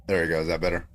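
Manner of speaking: robotic voice filter. Acted. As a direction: talk through a robot filter. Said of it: "you sound like a robot".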